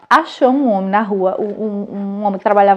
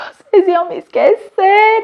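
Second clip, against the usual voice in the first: imitating her son; 9 semitones higher, 4 dB louder, much slower than usual. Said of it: "O meu filho, ele".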